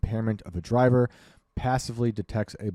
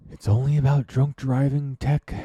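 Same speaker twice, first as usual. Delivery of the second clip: high, loud sarcastic mimic; mocking quote; 6 semitones higher, 5 dB louder than usual. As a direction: parrot their excuse mockingly. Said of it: "they say".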